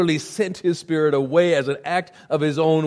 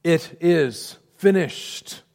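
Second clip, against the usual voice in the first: slow proclamation; 3 semitones higher, much slower than usual. Retold or imitated. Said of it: "he cried out".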